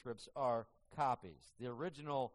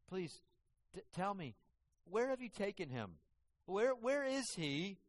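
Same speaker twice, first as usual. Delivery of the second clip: higher, pleading plea with a touch of tears; pleading, tearful; 5 semitones higher than usual. Acted. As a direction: beg the gardener, rising and stretched at the end. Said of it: "She's crying".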